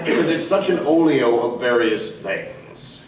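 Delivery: slowed South African accent; deliberate South African vowels. Shown as a demonstration. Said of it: "South African is a bitch".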